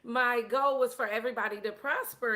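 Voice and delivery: acting out a distraught ruler. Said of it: "He's distraught. He's like".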